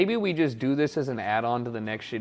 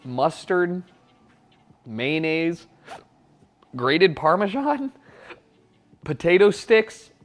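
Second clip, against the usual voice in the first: suppressing hiccups; 2 semitones higher, 5 dB louder than usual. Real, not acted. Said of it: "Sorry, I'm trying not to hiccup".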